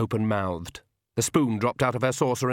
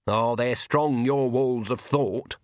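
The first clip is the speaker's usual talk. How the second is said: dreamy; slower than usual. Acted. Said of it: "said Granny dreamily".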